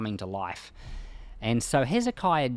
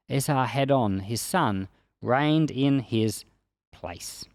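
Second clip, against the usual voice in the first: scripture reading. Acted. Reading Isaiah's account of Assyria's fall to viewers, solemn scripture reading. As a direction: read the passage like solemn scripture. Reads scripture passage aloud.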